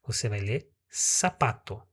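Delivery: "sapato" said with a clear S, not Z; S sound for Z. Shown as a demonstration. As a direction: read "sapato" with an S at the start. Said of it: "Você não vai ler zapato". ("sapato" com som de S, não Z)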